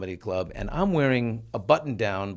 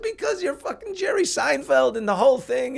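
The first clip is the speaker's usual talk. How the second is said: nervous outburst; 13 semitones higher than usual. Retold or imitated. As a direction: spill it out in a fluster. Retold nervous outburst continues.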